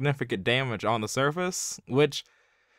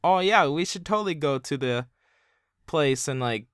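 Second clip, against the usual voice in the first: put-on childish Aquaman voice. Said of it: "he talks like he's, like, a child".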